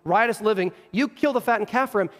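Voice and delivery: mildly furious, aggrieved complaint; understated fury at being passed over; indignant older brother. Acted. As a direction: protest to a father with measured, building indignation. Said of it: "He is furious".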